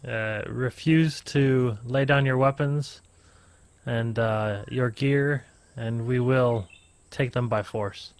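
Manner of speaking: slow, firm accusing commander voice; a hint of a stern soldier, measured.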